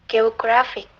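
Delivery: "geographic" with the GRAPH syllable stressed; stressed second-last syllable. Shown as a demonstration. Lecturer giving examples of penultimate stress, "geographic" stressed on GRAPH. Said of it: "The stress grab".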